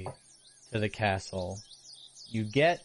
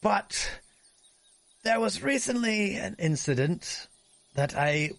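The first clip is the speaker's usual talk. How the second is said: pompous noble voice; 5 semitones higher than usual. Acted.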